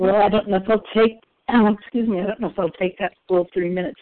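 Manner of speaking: hoarse, croaky morning voice; frog voice. Real, not acted. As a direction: speak through a frog in the throat. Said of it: "I still have my frog voice".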